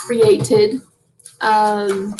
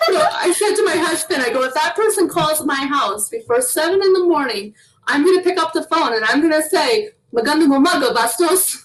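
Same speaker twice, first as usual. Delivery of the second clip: laughing while retelling; 5 semitones higher than usual. Real, not acted.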